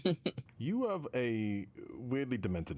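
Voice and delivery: high, loud amused laugh-talk; laughing it out in disbelief. Real, not acted. Laughing at gross joke.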